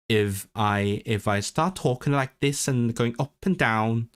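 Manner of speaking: lightly Welsh intonation, going up and down; a hint of Welsh sing-song; Welsh lilt. Shown as a demonstration. Streamer demonstrating intonation to viewers, slight Welsh lilt. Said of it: "I sounded really Welsh for a second".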